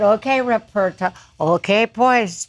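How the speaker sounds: lightly imitated bandleader, B said as P; a touch of the bandleader's German accent, half laughing at the end; the bandleader's accent. Singer mimics the bandleader telling the band, light accent. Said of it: "Every B was a P".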